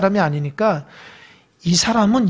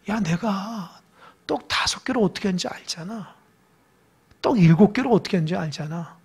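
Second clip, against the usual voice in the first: soft, much quieter tender voice; gentle reassurance; 5 dB quieter than usual. Retold or imitated. Jesus reassuring his disciples, soft and tender. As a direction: hush it down to comfort them.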